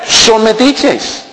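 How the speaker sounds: Son metiches said slowly and high, each syllable leaned on; slow, pointed. Real, not acted. Preacher teasing about meddling mothers-in-law, slow and pointed. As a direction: drag out metiches with a knowing lift. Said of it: "perdón".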